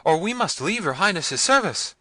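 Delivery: high, loud, frightened plea; frightened servants crying out. A narrator's reading. Servants pleading with Manfred, high and frightened. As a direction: servants begging their lord in fear. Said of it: "cried all the servants at once".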